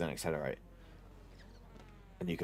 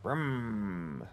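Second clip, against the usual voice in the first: engine idling sound; 4 dB quieter than usual. Pretend. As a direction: mouth a revving engine noise. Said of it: "I don't need to make the car noises".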